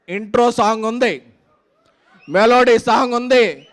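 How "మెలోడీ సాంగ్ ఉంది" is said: crowd-pumping stage hype; excited. Real, not acted. Hyping film on stage.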